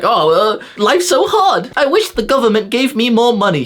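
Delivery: very high, slow, whining mock of a lazy guy; high, slow whiny parody; whiny complainer. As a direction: drag out the self-pity.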